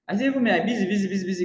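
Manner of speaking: mock your own frantic busyness; excited self-mockery. Mocking his own busy excuse.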